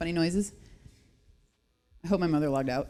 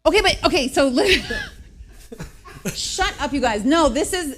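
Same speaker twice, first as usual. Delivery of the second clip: higher and louder, laughing through protests; flustered laughing; 8 semitones higher, 4 dB louder than usual. Real, not acted. Laughing while her co-host mocks her, flustered. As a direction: tries to talk over her own giggles.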